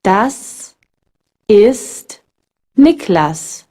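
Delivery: sharp s in "Das", "ist" and "Niklas", never z; voiceless German S. Shown as a demonstration. Teacher giving examples of final S, hissed and separated. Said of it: "followed by a consonant or is at the end".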